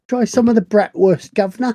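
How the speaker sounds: loud, high mock European accent; mock European innkeeper. Innkeeper offering the guest food, hammed-up foreign accent. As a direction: ham up a fake continental host. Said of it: "pretending to do some accent".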